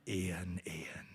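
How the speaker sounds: whispered low warning of his name; stern whisper. Shown as a demonstration. Parent warning a child in a low whisper. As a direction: hiss it like a parent in church. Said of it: "maybe you had that when you were growing up".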